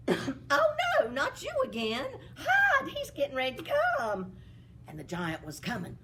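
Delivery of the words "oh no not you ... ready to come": put-on high, panicked servant girl; a near-wail telling him to hide. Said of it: "The little servant girl said".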